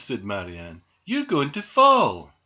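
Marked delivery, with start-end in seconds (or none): 1.0-2.3 high, loud, stretched-out warning; alarmed warning. A narrator's reading. Doll to squirrel balancing on chimney pot, alarmed warning. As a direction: call up a slow warning.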